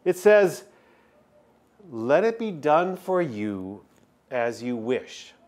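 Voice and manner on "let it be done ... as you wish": slow, weighty reading of the verse. Shown as a demonstration. To the congregation, reading the verse slowly and deliberately. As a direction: read it out slowly, each word placed. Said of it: "Look what the text says".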